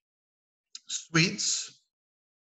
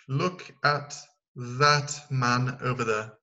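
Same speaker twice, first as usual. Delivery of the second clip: slow model answer; much slower than usual. Shown as a demonstration. Teacher reads the class the answer, slowly. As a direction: look at that man over there, drawn out slowly. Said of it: "Je reviens sur ce qu'on a dit".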